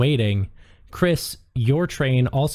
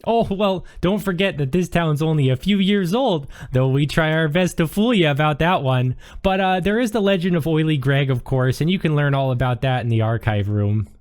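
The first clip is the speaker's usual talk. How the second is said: sweet librarian; 4 semitones higher than usual. Acted. Librarian tells visitor of town legend, sweet and upbeat. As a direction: sell the town's little legend sweetly.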